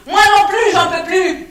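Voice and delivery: loud, high yelled reply; shouting back. Acted. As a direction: yell it back from the other room. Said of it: "il a crié".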